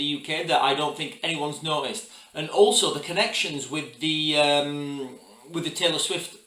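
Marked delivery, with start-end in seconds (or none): 2.3-6.4 talking with food in mouth; words muffled by a mouthful; mouth full. Real, not acted. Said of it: "I've got something in my mouth".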